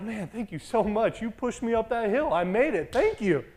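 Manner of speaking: imitating an elated, grateful guy; acted gratitude. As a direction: gush thanks as the other rider. Other rider's grateful thanks retold.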